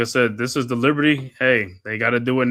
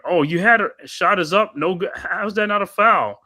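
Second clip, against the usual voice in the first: excited outburst; 8 semitones higher, 5 dB louder than usual. Real, not acted. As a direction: pitch jumps, louder, indignant at the missed call. Shot missed, foul not called.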